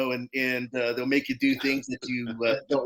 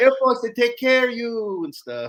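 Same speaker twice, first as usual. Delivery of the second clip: mock Thai accent, higher pitch; 11 semitones higher, 3 dB louder than usual. Retelling what mom said about joining the Marines: imitating mom's Thai accent. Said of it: "she has her little accent".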